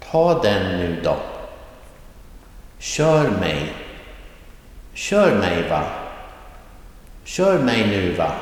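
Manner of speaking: Kommer, Läser, Bjuder with pitch swung up on the first syllable, then falling away; rising tone, accent one. Shown as a demonstration. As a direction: punch the first word of each phrase, KOMMER du, RINGER ni. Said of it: "this is all rising tone accent one".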